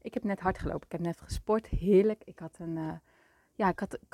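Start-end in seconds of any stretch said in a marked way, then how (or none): 0.1-0.9 laughing, a bit out of breath; breathless laugh. Real, not acted. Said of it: "je klinkt een beetje buiten adem". 0.9-2.2 breathless after a run; a bit winded from running; out of breath. Real, not acted. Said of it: "je klinkt een beetje buiten adem".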